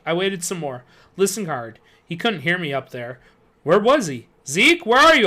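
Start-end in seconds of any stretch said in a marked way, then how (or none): 4.5-5.3 loud high call upward. A narrator's reading. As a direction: call up to him. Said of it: "I called up".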